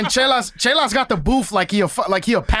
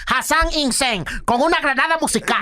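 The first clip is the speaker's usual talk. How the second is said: radio intro voice; 4 semitones higher than usual. Retold or imitated. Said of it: "the old school Dembo intro".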